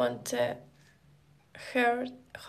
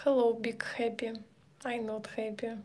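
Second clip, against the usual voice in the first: quick breathy whisper of a greeting; 2 semitones lower, 7 dB quieter, much faster than usual. Real, not acted. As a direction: whisper the hello fast.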